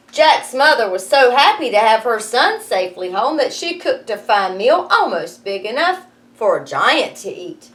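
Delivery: lively read-aloud storytelling; story narration. A narrator's reading. Teacher reading Jack and the Beanstalk to her class, lively narration.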